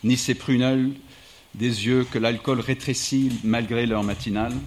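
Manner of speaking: measured literary reading voice; steady book-excerpt narration; reading aloud. Acted. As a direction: read the passage to the audience like a storyteller. Reads an excerpt from his book.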